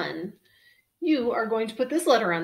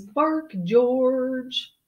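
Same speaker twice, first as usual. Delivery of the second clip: louder, higher, drawn-out title call; title announcement; 4 semitones higher, 6 dB louder than usual. A narrator's reading. Reader presenting the title page to children, big announcement.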